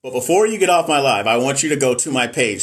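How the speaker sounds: long dramatic pause before it, then firm. Shown as a demonstration. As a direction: hold the silence, then say it pointedly. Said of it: "See, I did a dramatic pause".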